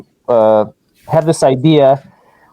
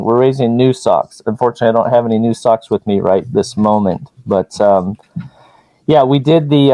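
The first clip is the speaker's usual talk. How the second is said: muffled through a mask; 3 semitones lower than usual. Real, not acted. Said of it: "can you hear me okay through the mask".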